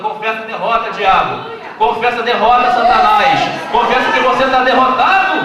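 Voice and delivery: rising to a loud rebuke; rebuking command. Pretend. God commands the devil to confess defeat, building loud.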